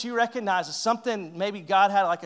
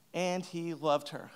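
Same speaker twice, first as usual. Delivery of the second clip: softer, slow "And he loved her"; quiet, slower echo; soft repeat; 7 dB quieter, slower than usual. Shown as a demonstration. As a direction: say it again quietly, letting it land.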